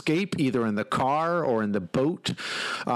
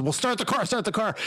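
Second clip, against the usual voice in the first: higher-pitched mock urging; retold urging; 6 semitones higher than usual. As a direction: imitate an insistent teammate, pitched up. Retold player urging him to drive.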